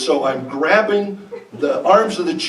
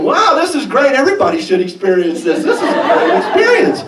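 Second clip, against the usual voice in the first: mock euphoric musing; 7 semitones higher, faster than usual. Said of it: "I'm thinking".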